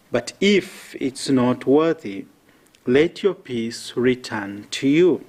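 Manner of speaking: solemn measured scripture proclamation; Gospel reading. Acted. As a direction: proclaim it to the congregation.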